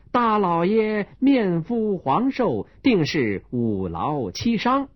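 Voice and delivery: serious doctor; earnest doctor diagnosis. Acted. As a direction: diagnose him with a straight face.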